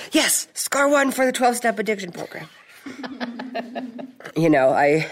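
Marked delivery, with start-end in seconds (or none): 0.1-2.5 high, laughing little victory cheer; laughing inner cheer. Retold or imitated. Cheering silently as diners swap wine, high and laughing. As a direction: gloat playfully with a laugh. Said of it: "I'm thinking".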